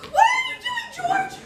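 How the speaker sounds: high, loud startled cry; shocked shriek. Acted. Friend recoils from a sudden kiss, shrieking. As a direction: recoil in alarm.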